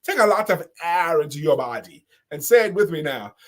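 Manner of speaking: put-on Nigerian accent, measured instructions; playful imitation Nigerian accent. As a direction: lead the crowd in a Nigerian accent. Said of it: "Put on your Nigerian voice accent".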